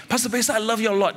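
quick sweet-talk. Pretend. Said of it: "And then after you say".

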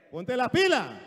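very loud, punched order; shouted wifely kick in the pants; scolding shout. Acted. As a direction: jolt him into action. Preacher re-acts wife's scolding order.

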